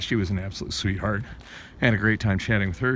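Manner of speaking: usual speaking voice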